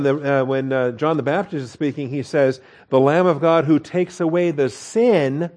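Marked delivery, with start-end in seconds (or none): 2.9-5.5 "sin" raised and held; stress on sin. Shown as a demonstration. Pastor quoting John the Baptist, leaning on "sin". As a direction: lift "sin" to mark it singular.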